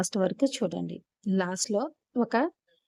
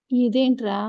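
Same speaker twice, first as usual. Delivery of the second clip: sharp, higher and louder disbelief; startled question; 4 semitones higher, 6 dB louder than usual. Acted. Sister reacts to what her brother hands her, startled. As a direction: blurt it out in shock.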